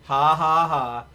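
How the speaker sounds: loud burst of laughter; real loud laugh at the chat. Real, not acted. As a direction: laugh it off loudly. Laughs at crash gift.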